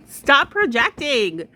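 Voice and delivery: mocking slow clapback; drawn-out sassy retort. Real, not acted. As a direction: stretch it out with attitude.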